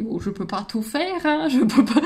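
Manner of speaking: put-on playful light Belgian accent; mock Belgian accent. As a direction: toss it off in a teasing Belgian accent. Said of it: "j'adore prendre l'accent belge". (petit accent belge pour rire)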